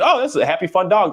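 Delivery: high, bright mock delight; cheerful delight. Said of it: "they're just seeing".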